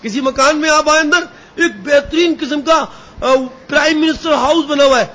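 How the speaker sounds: normal talking voice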